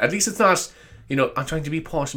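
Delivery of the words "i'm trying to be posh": lightly put-on posh accent; mock a posh accent softly; soft, affected posh accent. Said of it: "I don't talk like that".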